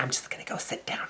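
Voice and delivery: embarrassed whisper. Retold or imitated. Retreating from the judge, sheepish whisper. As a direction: mumble it out of embarrassment.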